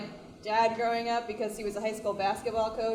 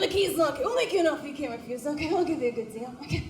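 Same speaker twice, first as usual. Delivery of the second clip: higher mock mafia ad read; mock mobster ad; 4 semitones higher, faster than usual. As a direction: ham up a Godfather-style truck ad. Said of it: "They say things like".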